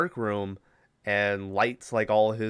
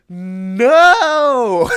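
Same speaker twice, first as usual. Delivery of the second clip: loud high shouted No; hammy horror-movie scream; big shouted No, much higher; mock scream; 11 semitones higher, 12 dB louder than usual. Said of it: "And Chad goes".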